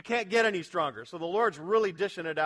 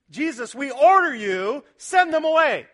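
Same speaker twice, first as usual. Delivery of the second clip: louder, slow ordering tone; mock command; 5 semitones higher, 11 dB louder than usual. Disciples ordering Jesus to send the crowd, mock commanding tone. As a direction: boss Jesus around. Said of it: "command him".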